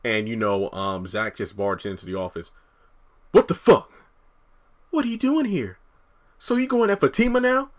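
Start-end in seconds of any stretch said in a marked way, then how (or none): 3.3-7.7 high, loud angry Karen voice; Karen impression. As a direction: confront him, outraged, in Karen's voice. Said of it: "the best Karen impression I can".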